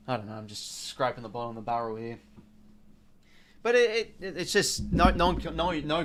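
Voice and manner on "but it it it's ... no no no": frustrated. Real, not acted. Streamer frustrated at team's play.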